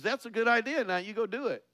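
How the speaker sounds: boss passing the job. Retold or imitated. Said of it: "the person in charge says".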